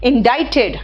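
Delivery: इंडाइटेड with a silent c and a long eye sound, in-DIE-ted; showing students the right way to say it; correct pronunciation. Shown as a demonstration. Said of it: "आई का pronunciation दे रहा है".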